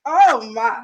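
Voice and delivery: put-on Southern lady's exclamation; Southern woman accent. Shown as a demonstration. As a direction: say it like the Southern women do. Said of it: "how the Southern women say".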